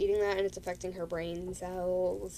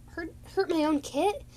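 higher, a touch of scorn; haughty dismissal; 6 semitones higher than usual. Retold or imitated. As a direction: brush off the accusation. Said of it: "She was like".

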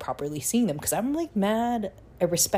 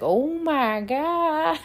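much higher, slow, stretched horrified "Oh my God"; shocked gasp; 13 semitones higher, 4 dB louder, much slower than usual. Retold or imitated. Sweet boyfriend watching the fight, in stretched high shock. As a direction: let it rise way up in disbelief.

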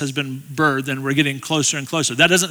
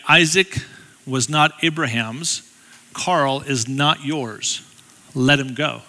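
retold divine message; slower than usual. Wife relaying what God told her, slow and solemn. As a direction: weigh each phrase with long pauses. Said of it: "God said very clearly".

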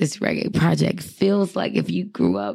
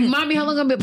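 put-on childlike plea; 8 semitones higher, faster than usual. Kid asking mom.

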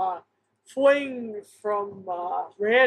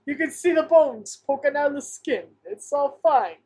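lightly put-on Italian gangster accent; casual Italian-accented tough guy, hammed up a little; Italian mobster accent; 3 semitones higher than usual. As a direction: play an easygoing mobster with a hint of Italian accent. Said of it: "my Italian accent".

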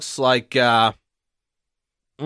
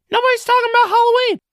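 squeaky high outburst; 4 dB louder, much faster than usual. Acted. Exaggerated squeaky disbelief.

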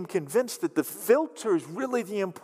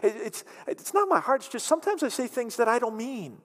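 pleading excuse; 6 semitones higher, faster than usual. Retold or imitated. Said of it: "Be like".

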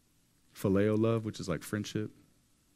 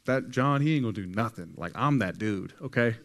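loud bragging swagger; boastful Peter; 6 dB louder than usual. Retold or imitated. Preacher voicing Peter bragging to Jesus, loud. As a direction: puff up like the toughest guy there. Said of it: "Peter was like".

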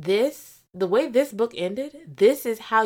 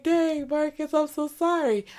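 mock sympathy; 9 semitones higher, 3 dB louder than usual. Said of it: "I was like".

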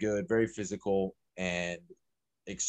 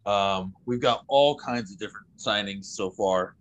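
winded, short of air; out of breath. Real, not acted. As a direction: talk while catching your breath. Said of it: "I'm still catching my breath".

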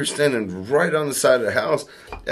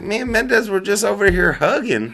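laughing; 6 semitones higher, 3 dB quieter than usual. Retold or imitated. Retells a funny misunderstanding.

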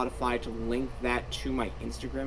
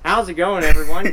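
upbeat greeting; 6 semitones higher, 14 dB louder than usual. Real, not acted. Podcast host greeting.

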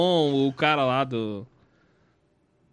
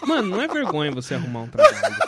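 fast laughing imitation of lecturing friend; mock lecturing friend; mock advice; faster than usual. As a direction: rattle off the advice half laughing. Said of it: "Ele aqui".

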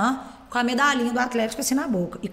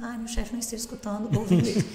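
much softer, confessional undertone; hushed aside; 7 dB quieter than usual. Real, not acted. Teacher hoping her boss isn't listening, hushed aside. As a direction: drop your voice as if the boss might hear.

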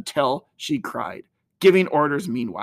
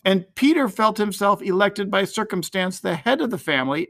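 ordinary delivery, nothing marked

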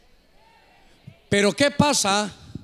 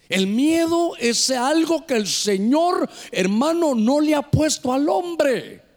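preaching; 4 semitones higher than usual. Real, not acted. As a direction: preach it out, stretching the phrases.

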